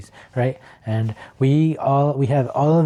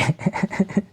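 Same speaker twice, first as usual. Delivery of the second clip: a soft breathy little laugh; 7 semitones higher, 3 dB quieter than usual. Real, not acted. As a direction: laugh under your breath. Laughs after "extraordinary.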